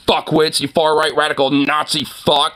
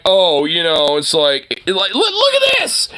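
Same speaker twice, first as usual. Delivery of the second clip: mocking conservatives. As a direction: sneer it like a smug troll showing off. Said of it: "are, like, now being like".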